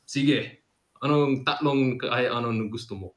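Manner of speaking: a lightly voiced genie granting wishes. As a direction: offer three powers like a genie. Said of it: "really good impression of a genie".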